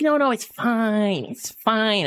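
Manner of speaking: lightly voiced mother insisting it's fine; mom's dismissive voice. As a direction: wave off the worry like mom. Mom brushing off worry.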